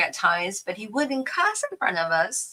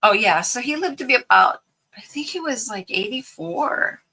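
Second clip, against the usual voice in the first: whispered aside; 4 semitones higher, 5 dB louder than usual. Real, not acted. Sudden aside while crafting.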